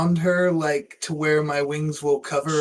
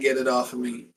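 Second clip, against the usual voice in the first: ordinary talk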